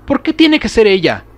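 high, loud anguished cry; tearful plea. Acted. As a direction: plead through tears. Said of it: "pregunto, sintiendo lágrimas en mis ojos".

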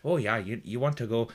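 lightly acted Canadian accent, bundled up against cold; freezing Canadian. Shown as a demonstration. Coach showing how to build a character, freezing Canadian accent. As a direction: stammer directions like a chilly Canadian. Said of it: "pretend you're, like, freezing 'cause it's cold".

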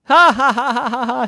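high ha-ha-ha, loud at first; acted laugh. Wilt cracking up at spider joke, performed laughter. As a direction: laugh proudly at your own joke.

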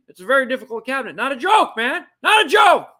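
high, rising burst of exasperation; insistent mock shout. Host as the president insisting he is serious, hammed-up exasperated shout.

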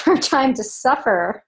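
a small laugh slipping into the words; breaking into laughter. Real, not acted. Reading an online comment, can't get through without laughing. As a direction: try reading it out, laugh escaping midway. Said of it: "can't even get through that without laughing".

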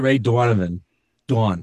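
"Donovan" starting like "Dawn"; Boston pronunciation. Shown as a demonstration. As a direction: try "Donovan" with a rounded Boston first vowel. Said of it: "he has that Boston accent".

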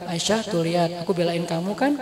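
soft, low retold aside; confiding aside. Husband turning to wife behind him, quietly reassuring. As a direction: drop it softly for her ears alone.

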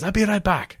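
high-pitched driver impression; imitating breezy driver. Driver hopping out before a group of men, imitated high and breezy. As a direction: toss it off high as the carefree driver. Driver leaving car, voiced.

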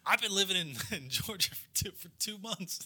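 lightly voiced Southern redneck breaking into laughter; mock-aggrieved Southern twang; Chinese-born redneck. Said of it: "it's fully Chinese guy, but he's wearing".

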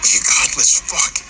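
slow, venomous curse spat out. A narrator's reading. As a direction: spit the insult through a broken mouth. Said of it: "Lewis spat".

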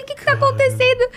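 very high, fast mock panic; imitated alarmed boyfriend. Boyfriend asking his crying partner what happened, high frantic mock alarm. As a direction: fire the question high and hurried. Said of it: "Meu namorado assim".

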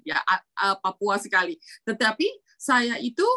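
ordinary talk, nothing marked

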